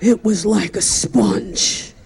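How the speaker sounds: slow, halting, tearful eulogy voice with catches between words; Howard Stern choking back tears. Retold or imitated. Howard Stern at Joan Rivers' funeral, choking back tears. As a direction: do a low, choked-up Howard Stern fighting back sobs. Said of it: "he's choking back tears".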